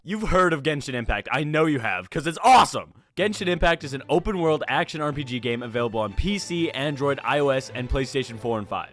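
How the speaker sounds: upbeat sponsor read. Acted. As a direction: sell the game brightly.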